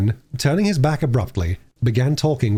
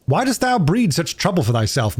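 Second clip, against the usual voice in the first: Gascoigne, lightly voiced; 6 semitones higher than usual. A narrator's reading. Gascoigne voiced in read story.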